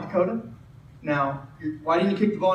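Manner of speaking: measured, understated coaching voice; calm questioning. Retold or imitated. Third-year coach pulls the kid aside, calm questioning. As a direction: ask it evenly, without scolding.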